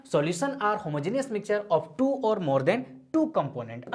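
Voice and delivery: definition read out word by word, very slow; slow dictation. Shown as a demonstration. Teacher dictating the definition to students, slow and deliberate. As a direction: spell out the definition slowly for notes. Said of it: "अब इस बात को थोड़ा समझते हैं".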